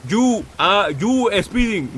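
very slow, drawn-out words; slowed for understanding. Real, not acted. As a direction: spell it out slowly for a confused driver. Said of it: "Can you speak so I can understand you".

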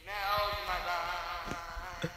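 tunnel voice. Acted. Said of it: "do the tunnel voice".

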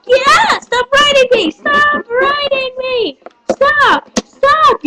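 high, frantic cartoon yelling; high yelled protest. Pinned fighter telling the other to stop, high yell. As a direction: yell to be let go, high-pitched.

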